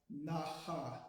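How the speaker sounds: "naha" with a guttural h mid-word; slow "naha", the middle h made in the throat. Shown as a demonstration. Teacher shows how X sounds inside a word, guttural H. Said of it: "that's the guttural".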